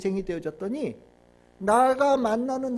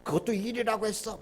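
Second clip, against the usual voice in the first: lightly acted reproach; mock scolding; 6 dB quieter than usual. Preacher imitating God berating someone's work, mildly scolding. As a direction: chide them, only mildly in earnest. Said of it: "막 이렇게 다그치고 혼내면".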